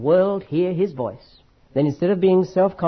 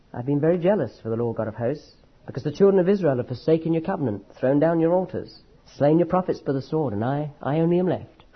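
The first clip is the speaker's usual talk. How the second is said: humbled, muffled. Shown as a demonstration. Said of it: "you notice the way I read them?".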